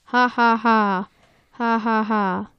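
deliberate fake "ha ha ha"; mock laughing. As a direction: act out a taunting laugh, evenly spaced. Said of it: "Squidward and Mister Krabs laugh".

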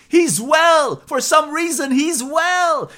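high, loud amazed cry; shouting vet. Acted. Veterinarian sees the horse galloping and shouts to Farmer John, loud amazed cry. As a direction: call it out in disbelief. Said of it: "and shouts".

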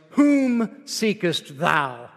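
very slow, solemn King James delivery; Morgan Freeman voice. Retold or imitated. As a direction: intone it grandly, like old scripture. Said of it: "very formal King James Version, Morgan Freeman sounding voice".

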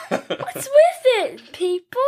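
mock exasperation.

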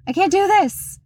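mildly acted overwhelmed protest; at breaking point. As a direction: act out being fed up, pitch rising. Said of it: "at my breaking point".

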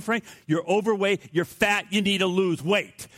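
mock-serious complaint to the heckler; sarcastic proposal. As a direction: sell the absurd idea with ironic indignation.

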